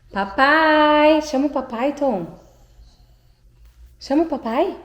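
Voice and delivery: normal talking voice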